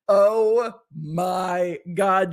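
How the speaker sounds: slow stunned oh my god. Real, not acted. Reacting again to the clip.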